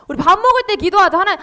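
usual speaking voice

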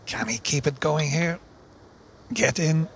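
loud, rising live commentary; excited commentary. Acted. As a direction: call the big finish with excitement. Commentator calls the winning break.

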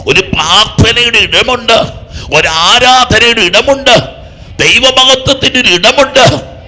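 stirring revival-meeting chant-like delivery; impassioned preaching. Real, not acted. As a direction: preach it with rising force, line by line. Preacher urges congregation.

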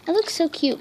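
breathless after swimming; out of breath. Real, not acted. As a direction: talk out of breath. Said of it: "also out of breath".

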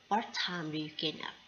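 very slow, careful English demo; teacher modelling the question for a friend; slow model question. Shown as a demonstration. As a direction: lay out each word slowly. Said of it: "พอดาวบอก".

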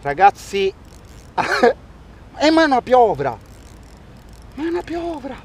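high excited yelps, laughing; excited shout. Real, not acted. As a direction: shout in real surprise at the catch. Reacts to catching an octopus. (urlo eccitato di stupore)

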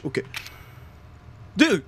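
slow breathy whisper to himself. Real, not acted. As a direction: whisper it under your breath. Game aside, unvoiced and slow.

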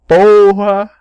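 loud exclamation. Real, not acted. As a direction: blurt it out indignantly. Outraged at accusation.

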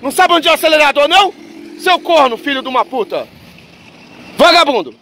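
high-pitched angry cursing; road rage. Real, not acted. Cursing another driver from the car.

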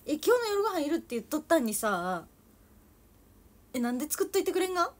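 loud, high Toyama dialect complaint, fast at the end; angry Toyama dialect. Pretend. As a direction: scold mom about dinner in Toyama dialect. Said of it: "え、富山弁。".

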